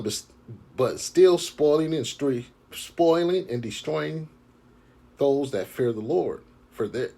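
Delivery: slow, measured preaching read; scripture reading. Acted. Street preacher reads prophecy to his brothers, slow and solemn.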